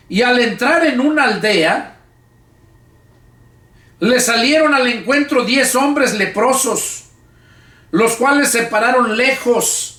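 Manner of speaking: slow, measured Bible reading aloud; Scripture reading. Acted. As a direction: read the Gospel to the congregation, phrase by phrase. (lectura bíblica pausada en voz alta)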